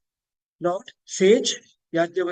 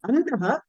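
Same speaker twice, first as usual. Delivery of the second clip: "Andaha" with the first A lowered; downward intonation on A; 3 semitones higher than usual. Shown as a demonstration. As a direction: drop the opening "A" of "Andaha". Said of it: "downward intonation".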